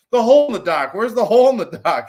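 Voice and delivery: high, loud mock panic; frantic demand, hammed up for the story; imitated terrified guy.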